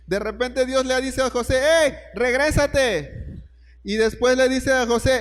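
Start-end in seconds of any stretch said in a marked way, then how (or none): 1.6-3.4 slow, higher, lightly voiced command; drawn-out call to come back, a hint of God; God's command. Dios ordena a José volver. (Dios manda a José regresar, lento y más agudo)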